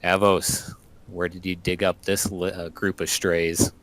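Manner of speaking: mild call across a camp. Acted. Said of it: "then kind of calls out to Avos".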